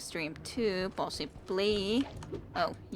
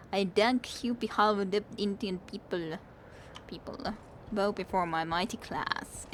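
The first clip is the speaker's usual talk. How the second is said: put-on Indian accent. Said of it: "never really tried to do Indian accent".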